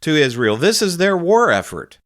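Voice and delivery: a shrugging, sighing mock of a pundit; mocking shrug. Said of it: "this creep sighs and rolls his eyes and shrugs".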